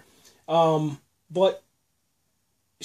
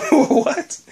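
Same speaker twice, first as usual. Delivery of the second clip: baffled what; 12 semitones higher, 5 dB louder than usual. Retold or imitated. Viewer's baffled reaction.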